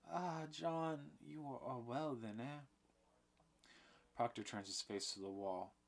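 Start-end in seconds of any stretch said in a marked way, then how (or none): 0.1-2.6 brightening. A narrator's reading. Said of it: "brightening as she sees Proctor".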